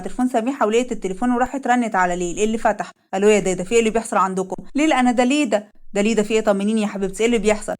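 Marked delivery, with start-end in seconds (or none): 3.1-7.7 lightly lowered, anxious husband; asking his wife what happened; worried husband. Acted. Leil on phone, worried.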